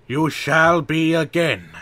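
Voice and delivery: loud, high defiant shout. A narrator's reading. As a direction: defy him at full voice. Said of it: "shouted Vakama".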